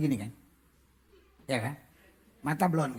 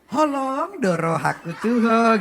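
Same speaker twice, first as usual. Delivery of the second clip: slow, stretched Holong doro; mock sweetened Batak line; sweet drawn-out Batak; 4 dB louder, much slower than usual. Shown as a demonstration. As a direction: croon it sweetly. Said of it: "nggak bisa di".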